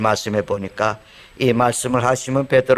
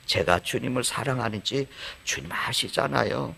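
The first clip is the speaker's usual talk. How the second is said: softer, humbled Peter; humble soft answer; 8 dB quieter than usual. Retold or imitated. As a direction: confess it gently, without boasting. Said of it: "그런 톤으로 얘기했을까요?". (겸손하고 조용한 고백)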